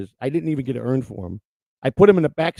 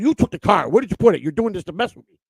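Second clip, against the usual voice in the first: raised-voice accusation, re-enacted; retold yelling; 3 semitones higher, 4 dB louder than usual. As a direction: imitate yourself yelling an accusation, higher and louder. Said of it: "I'm yelling at Christina".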